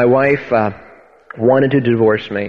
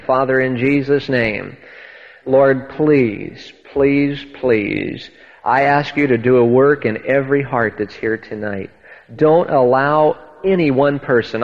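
earnest pleading prayer, slowing on the petitions. Acted. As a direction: pray over the congregation with conviction. Pastor prays before his testimony.

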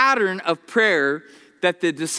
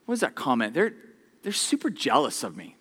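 suspicious thought; 5 semitones lower, 6 dB quieter, faster than usual. Retold or imitated. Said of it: "then you think, like".

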